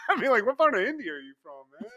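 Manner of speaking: fast, laughing through the words; giggling question. Real, not acted. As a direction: ask it while cracking up.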